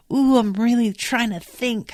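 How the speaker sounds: mock patronizing imitation. Man points at his head at her, mock patronizing. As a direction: imitate someone making a show of thinking hard. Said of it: "incredibly patronizing and demeaning".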